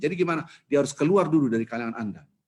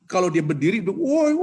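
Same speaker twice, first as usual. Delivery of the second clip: laughing; 7 semitones higher, 7 dB louder than usual. Real, not acted. Laughing at imagined scene.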